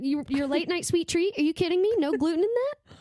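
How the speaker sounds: mock outrage at the idea; real indignation, half laughing; incredulous rant. Real, not acted. Ranting about sweet treats.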